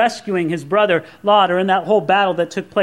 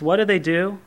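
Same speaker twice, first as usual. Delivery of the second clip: ordinary talk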